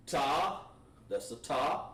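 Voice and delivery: "ta" with an aspirated t; crisp ta. Shown as a demonstration. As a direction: hit "ta" sharply. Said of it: "We say".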